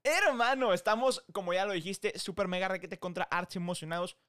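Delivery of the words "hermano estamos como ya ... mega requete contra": excited. Real, not acted. Excited greeting.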